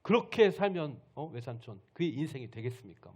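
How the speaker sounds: loud outburst easing into a reproach; thundering scolding. Acted. Jacob questions his uncle's way of life, thundering scolding. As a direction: open with a shout, then press the question. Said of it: "호통을 치는 거예요".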